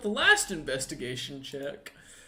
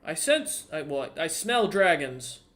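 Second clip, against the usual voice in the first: put-on old blind shopkeeper; 2 semitones higher, 3 dB louder, slower than usual. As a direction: play the blind old merchant sniffing out trouble. Shopkeeper voice continues.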